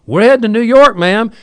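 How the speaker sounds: matter-of-fact hammed-up driver; driver's reply. Bus driver answering the girl, hammed-up and loud. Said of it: "He goes".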